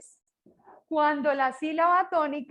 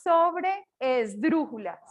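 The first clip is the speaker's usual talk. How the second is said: término recalcado; much slower than usual. Shown as a demonstration. Profesor recalca el término nuevo.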